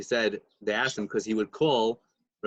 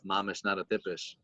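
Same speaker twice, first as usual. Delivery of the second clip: softer, half-swallowed mumble; a rebbe muttering his verdict under his breath, softer; mumbling to himself; 2 semitones lower, 7 dB quieter than usual. Retold or imitated. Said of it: "he's mumbling to himself".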